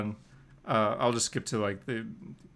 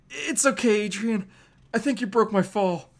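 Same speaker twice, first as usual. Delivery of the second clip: higher, playful mock comfort; cheeky quip; 6 semitones higher, 4 dB louder than usual. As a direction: gloat lightly. Cheeky Spider-Man.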